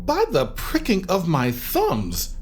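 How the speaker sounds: slow, dramatic incantation, falling low at the end; ominous recitation. Acted. Actor quoting Macbeth as dread gathers, ominously. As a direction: intone it like a witch's prophecy.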